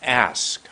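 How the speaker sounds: "Ask" opened on a long vowel; a long, deliberate "Ask"; lengthened vowel. Shown as a demonstration. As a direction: draw out the start of "Ask". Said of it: "I go like this".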